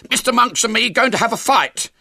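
high, very loud showman's shout; straining boyish shout, pitched right up; hoarse shout. A narrator's reading. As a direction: yell the announcement over the commotion. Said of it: "shouted William hoarsely".

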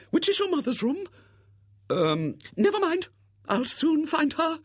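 high, brisk lady's voice; bustling spinster. Acted. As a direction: hurry on like an excited old maid. Miss Rubina searching the house.

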